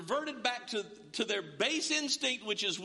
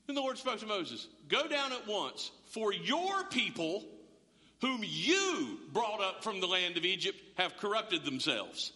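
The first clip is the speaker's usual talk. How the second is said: a hint of a God voice. Shown as a demonstration. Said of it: "in a God voice".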